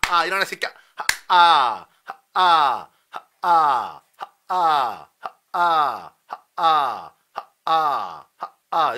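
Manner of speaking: loud punched 하, 아 bursts; smashing staccato. Shown as a demonstration. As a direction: smash each 하, 아 hard. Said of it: "이제 스매싱 하는 거야".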